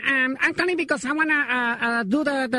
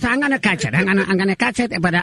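put-on much lower old man, loud and gruff; old father voice; 6 semitones lower, 3 dB louder than usual. Prank caller as the father complaining about his son, low gruff voice. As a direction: growl it like a grumpy old dad. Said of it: "my father here is with me".

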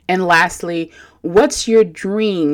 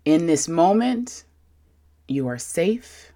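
calm voice. Shown as a demonstration. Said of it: "let me calm my voice for you even more".

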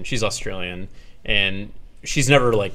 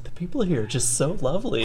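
higher, gushing imitation; delighted girlfriend; 8 semitones higher than usual. Imitating girlfriend charmed by locals, delighted gushing. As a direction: gush like a charmed visitor. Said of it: "She's like".

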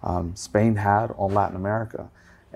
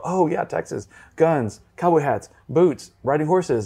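higher and slower, ticking off clichés; mock eager stereotype list; 5 semitones higher, slower than usual. Locals reeling off Texas clichés to him, in a higher, slower, mock-eager voice. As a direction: play the locals gushing about Texas clichés. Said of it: "then they go".

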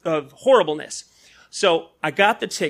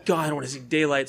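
sulky groan; 5 semitones lower, 7 dB quieter than usual. Retold or imitated. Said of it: "you're like".

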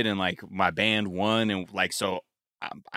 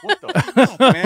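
incredulous outburst; 13 semitones higher, 8 dB louder than usual. Retold or imitated. Retold outrage at confusing IRS letters.

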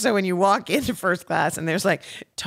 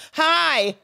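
much higher, bright mock greeting; chirpy hi; 10 semitones higher, 3 dB louder than usual. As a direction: pipe it up sweetly. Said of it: "I go".

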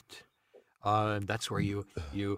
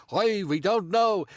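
higher, slower put-on neighbor voice; lightly voiced old neighbor; Jewish guy voice; 8 semitones higher, 5 dB louder, slower than usual. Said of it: "let me hear that Jewish guy voice again".

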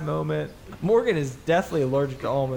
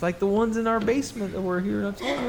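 put-on kid voice; 7 semitones higher than usual. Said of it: "Morgan goes".

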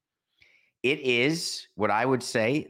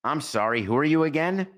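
woman's line; 6 semitones higher, 4 dB louder than usual. Retold or imitated. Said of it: "So here's the line".

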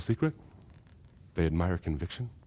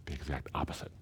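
said very softly, almost to himself; hushed; 7 semitones lower, 13 dB quieter than usual. Real, not acted. Preacher quietly restating what Jesus says, hushed. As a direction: drop the voice right down on "the exact opposite".

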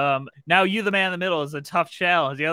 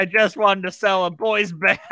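breaking into laughter mid-line; laughing; 4 semitones higher, 5 dB louder than usual. Real, not acted. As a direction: crack up on the last words. GM reads line, cracks up.

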